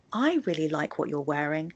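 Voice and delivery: "I" lifted above "really like what you're wearing"; stress on I. Shown as a demonstration. Teacher explaining the meaning, stressing "I". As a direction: lean on the opening "I". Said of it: "on the word I".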